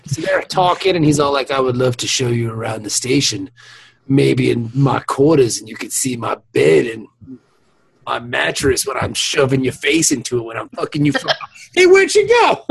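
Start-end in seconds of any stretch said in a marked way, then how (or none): 1.5-11.1 lightly voiced smooth talker, leaning in; a hint of a crude seducer; sleazy pickup line. Voicing Sisko's crude pickup. 11.1-12.6 mock surprise. Mock confusion, laughing.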